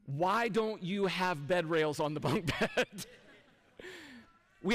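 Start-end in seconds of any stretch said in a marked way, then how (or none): 0.1-3.1 imagined listener question. Retold or imitated. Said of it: "here's what I know you're thinking".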